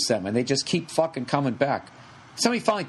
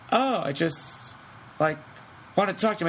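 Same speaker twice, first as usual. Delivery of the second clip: mock meek girlfriend; 3 semitones higher than usual. Voicing the crazy ex-girlfriend.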